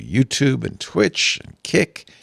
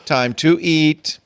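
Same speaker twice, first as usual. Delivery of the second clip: cat voice; 4 semitones higher, slower than usual. Pretend. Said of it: "She says".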